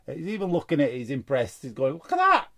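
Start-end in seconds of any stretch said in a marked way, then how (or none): 1.9-2.5 much higher, louder mock Batman; a hammed-up bad Batman impression; badly faked superhero voice. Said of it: "Can't do his voice".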